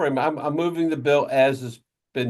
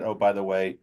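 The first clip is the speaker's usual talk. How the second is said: mock excuse, dripping sarcasm; sarcastic. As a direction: sneer it like a lame bureaucratic excuse. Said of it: "I'm being really sarcastic now".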